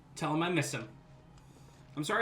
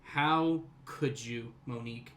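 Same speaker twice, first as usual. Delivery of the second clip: slow, hushed hammed-up hurt; mock-tragic slow lament; mock betrayal; 5 semitones lower, 3 dB quieter, slower than usual. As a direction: drag out How could you like a wounded lover. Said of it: "I trusted you".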